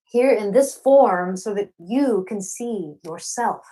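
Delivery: measured spoken-word poem read to an audience; poem recitation. Acted. Poet opening her reading, reciting her signature poem. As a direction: let each line land slowly, like a performed poem.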